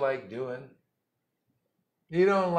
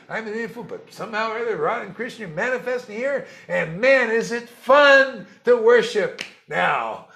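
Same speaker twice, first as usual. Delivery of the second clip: high, loud, delighted, stretching out the last line; joyful humble devotee; 10 semitones higher, 14 dB louder than usual. Retold or imitated. Guru voicing his own daily thought, high and elated. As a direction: rejoice that Krishna shows up for a fool.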